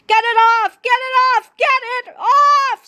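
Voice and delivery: high, loud panicked screaming; frantic scream. A narrator's reading. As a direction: scream it while jumping around. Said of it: "screamed Finkstein".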